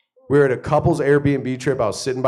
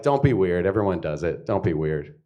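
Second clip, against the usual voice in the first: mocking wife; 5 semitones lower than usual. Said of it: "this is her exact reaction".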